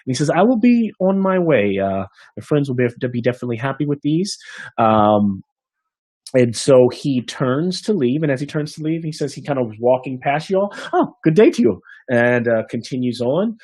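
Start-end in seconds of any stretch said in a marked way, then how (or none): 0.3-4.4 higher, breezy bard voice; cheery farewell to the innkeeper; half elf bard taking the food, higher; cheerful bard. Acted. 10.9-11.8 high, loud sing-song greeting; chirpy bard. Acted. Bard greeting passing party.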